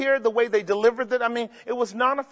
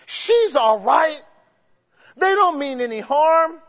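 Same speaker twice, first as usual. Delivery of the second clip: mock naive listener; 3 semitones higher, slower than usual. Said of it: "teachings that would cause you to say".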